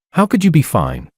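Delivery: urgent. A narrator's reading. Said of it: "I said urgently".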